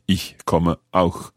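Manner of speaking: slow, "auch" placed carefully after "komme"; slow practice repeat. Shown as a demonstration. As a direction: repeat it slowly, lingering on "auch". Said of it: "So it's going after the verb".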